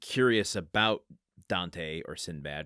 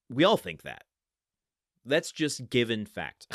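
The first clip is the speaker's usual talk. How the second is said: raised, emphatic mock certainty; hammed-up knowing agreement; mock presumption; 3 semitones higher, 4 dB louder than usual. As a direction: state it as what everyone obviously agrees. Voices author presuming shared opinion.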